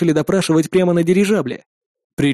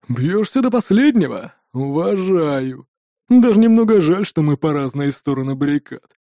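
smug villain. Acted. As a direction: sneer down at a beaten enemy. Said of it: "В голосе налётчика слышалась надменная ухмылка".

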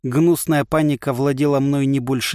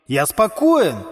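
irritated; 7 semitones higher, slower than usual. A narrator's reading. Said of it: "всё больше раздражаясь".

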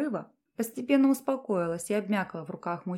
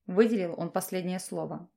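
ordinary delivery

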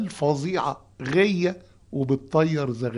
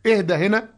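اهدى rising high and louder; stressed اهدى; 6 semitones higher, 5 dB louder than usual. Shown as a demonstration. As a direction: lift the word اهدى up. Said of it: "ممكن تتسمع اهدى". (اهدى بنبرة صاعدة عالية)

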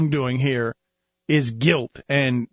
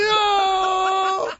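mock jury gush; 11 semitones higher, much slower than usual. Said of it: "And the jury will be".

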